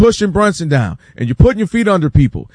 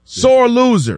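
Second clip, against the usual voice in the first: higher-pitched retold jeer; mock disdain; 6 semitones higher, slower than usual. Fans scorning a star who skipped handshakes, mock disdain. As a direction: imitate a critic passing scornful judgment. Voicing critics turning on the star.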